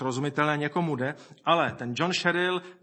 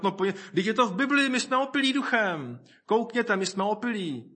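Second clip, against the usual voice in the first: high-pitched mock urging; mimicked silly believer; 5 semitones higher than usual. Believers acting drunk, coaxing others along, in parody. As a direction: parody someone proudly playing drunk. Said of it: "začali se chovat jako opilí".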